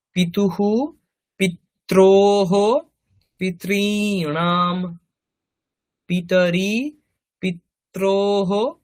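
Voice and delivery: slow, measured chanting of noun forms; rote recitation. Shown as a demonstration. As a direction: recite each form evenly like a class drill. Reciting Sanskrit declension table. (ধীরে ধীরে শব্দরূপ আবৃত্তি)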